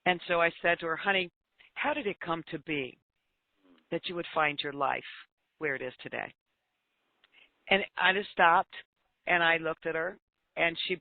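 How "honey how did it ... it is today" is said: put-on soft, gentle question to a troubled girl. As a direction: ask it tenderly, no judgment. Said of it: "in just a very gentle voice".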